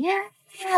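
thin, high imitated cries; imitated horrible yelling. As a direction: imitate a child's yells heard from another room. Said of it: "like, yelling horribly".

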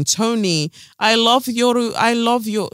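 mock Ukrainian plea, barely an accent; attempted Ukrainian accent. To Tony, mock Ukrainian accent, halfhearted. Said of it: "that's not a Ukrainian accent".

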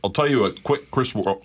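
talking through a mouthful of burger; words round a big bite; mouth full. Real, not acted. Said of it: "my mouth is full".

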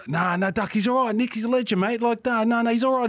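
high, hurried reassurance; placating plea. Retold or imitated. Brayshaw placates Duck.

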